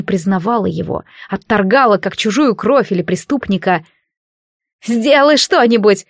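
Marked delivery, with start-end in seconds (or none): 4.8-6.0 frightened cry. Acted. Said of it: "кричала Кариша".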